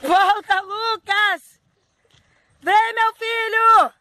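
high, slow, drawn-out call. Real, not acted.

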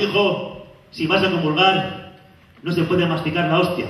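a hint of a stern mother; slow stern mother. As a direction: lecture like a mother before mass. Mother voiced slowly.

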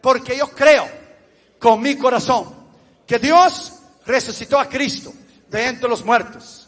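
measured phrases with pauses to repeat; solemn, deliberate prayer in short pieces; leading sinner's prayer. Real, not acted. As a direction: lead the congregation phrase by phrase. Leads repeat-after-me prayer.

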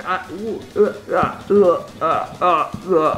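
breathless uh uh; choked stammer from shock; stunned stammering. Real, not acted. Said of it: "that's me dying".

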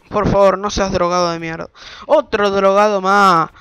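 loud angry yell, the last words slowed; full-throated rant; furious shout. Real, not acted. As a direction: bellow at the addict. Rejecting drug addicts at border.

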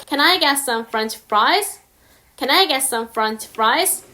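Can I get some French fries, spoken very slowly; careful teacher read; slow demo; slow example. Shown as a demonstration. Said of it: "이렇게 발음한다면".

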